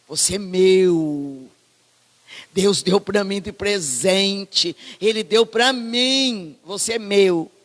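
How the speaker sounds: slow, loving words; mild fond father's voice; tender father. Acted. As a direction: cherish the son as a gift. Father voicing fond love.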